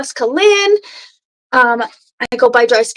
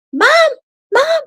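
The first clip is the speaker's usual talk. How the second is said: mock yell. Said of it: "And she just".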